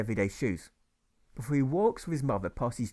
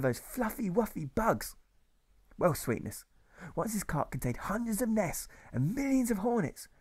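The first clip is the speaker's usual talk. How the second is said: put-on higher, sing-song baby-talk storytelling; sugary storyteller; 3 semitones higher than usual. Sunday school teacher telling little Alfred his daddy's story, cooing. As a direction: coo the tale like to a small child.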